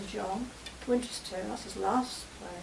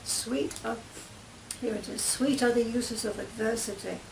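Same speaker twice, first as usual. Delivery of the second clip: reading Shakespeare aloud. Acted. Claire reads the banished Duke's speech to her friends, in an even recital. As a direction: read the Duke's lines like a stage speech.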